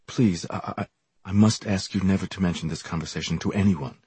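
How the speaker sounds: guilty stammer, hurried; caught out. Acted. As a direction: stumble over the words guiltily. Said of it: "He stammered guiltily".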